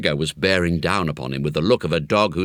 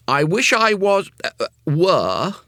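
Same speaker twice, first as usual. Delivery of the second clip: put-on triumphant boy; 11 semitones higher, 5 dB louder than usual. A narrator's reading. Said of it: "he brought out triumphantly".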